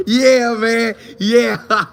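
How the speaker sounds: laughing through a mock yeah, man; chuckling coach answering with a laugh. Coach laughing at Shedeur's trick, laughing through yeah.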